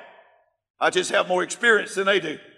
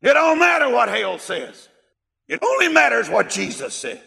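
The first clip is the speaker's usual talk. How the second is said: preaching shout; 3 semitones higher than usual. Real, not acted. Preacher's emphatic declaration.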